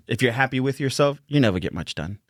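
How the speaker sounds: put-on tough Boston accent on a saying. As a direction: say it like a Boston local. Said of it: "I did it in a Boston accent right there".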